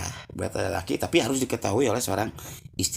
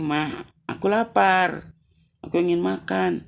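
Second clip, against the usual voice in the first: put-on a hungry child whining again, dragging out lapar; a mock crying kid pleading with mum; 7 semitones higher than usual. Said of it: "anaknya nangis lagi".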